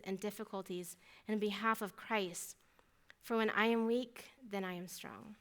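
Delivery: measured Bible reading, slowing on key phrases; scripture reading aloud. Real, not acted. Speaker concluding her story with Second Corinthians, measured reading aloud. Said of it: "I'm just gonna read it out loud".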